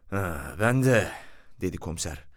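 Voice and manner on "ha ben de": softly reflective opener; fatherly. A narrator's reading. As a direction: begin a confiding reminiscence. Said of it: "babacan bir adamdı".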